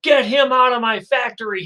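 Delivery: high, loud horrified yell; panicked scream. Acted. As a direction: scream it in horror from the office above. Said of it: "and he screams".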